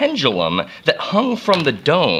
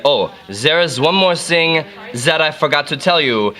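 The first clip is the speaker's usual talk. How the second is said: Jean-Bernard Léon Foucault. Acted. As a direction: add one more point as a mock Frenchman. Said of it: "Foucault came in and he said".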